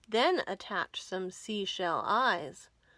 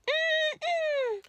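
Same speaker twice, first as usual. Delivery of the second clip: very high, loud, slow relish; pirates savouring pie; 6 dB louder, much slower than usual. Acted. Pirates gloating over Uncle Willy's stolen pie, high and slow. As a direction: savour every bite like greedy pirates. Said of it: "they all said".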